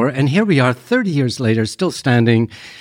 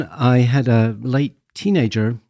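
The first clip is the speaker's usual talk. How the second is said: ordinary delivery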